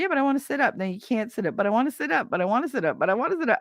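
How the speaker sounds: put-on high, whiny child-like pleading; whiny patient. Patient whining to nurses she wants to sit up. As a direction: whine like a stubborn kid. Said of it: "They were like".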